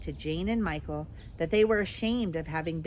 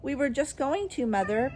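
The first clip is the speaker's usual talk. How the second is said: higher, hushed timid voice; frightened whisper; 7 semitones higher than usual. A narrator's reading. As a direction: excuse yourself timidly to Mother. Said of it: "in a frightened whisper".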